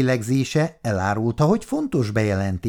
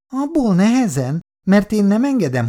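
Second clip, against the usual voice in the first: raised, higher protest; angry father; 9 semitones higher, 4 dB louder than usual. Acted. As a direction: put your foot down hard. Férj tiltakozik a horgolás ellen. (ingerült, felemelt hangú tiltakozás)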